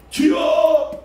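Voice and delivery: high loud cry of Lord; shouted cry. Shown as a demonstration. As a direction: shout it out fully. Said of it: "진짜로 이렇게 해봤어요". (크게 외치는 주여)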